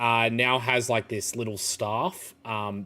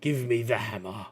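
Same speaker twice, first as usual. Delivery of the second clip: Ignis, gruff smith. Acted. Ignis cuts in scoffing, asking for the hammer, lightly voiced. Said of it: "kind of juts in and goes".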